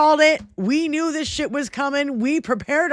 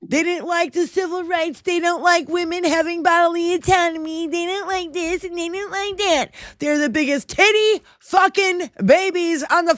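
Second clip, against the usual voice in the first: higher, scornful listing; pitched-up contempt; high mocking rant; 6 semitones higher than usual. Real, not acted. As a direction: sneer out each complaint. Ranting at Republicans.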